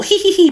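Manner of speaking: mock little hee-hee giggle; imitated giggle. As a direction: imitate a faint giggle behind a door. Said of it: "she hears noises coming".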